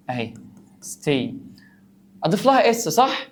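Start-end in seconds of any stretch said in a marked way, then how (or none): 2.2-3.3 mock student question. Teacher voices a confused student.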